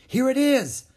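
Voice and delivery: high, loud triumphant call; girl calling out her find; excited find. A narrator's reading. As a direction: found it, shout it out. Annie finds scroll.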